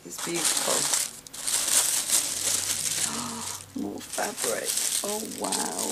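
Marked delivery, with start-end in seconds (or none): 0.8-3.8 long unvoiced gasp of wonder; delighted gasp. Real, not acted. Finding more fabric in the box, a long delighted gasp. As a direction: catch your breath at the surprise. Unwrapping another gift.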